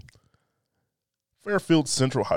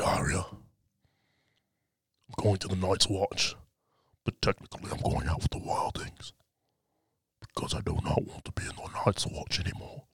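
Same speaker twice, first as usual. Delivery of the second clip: quoting Jon Snow; 2 semitones lower, 6 dB quieter than usual. Retold or imitated.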